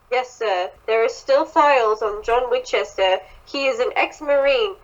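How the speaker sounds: attempted butler accent, badly faked; Jarvis. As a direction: put on an uncertain foreign-to-you accent. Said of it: "I don't know what accent that was".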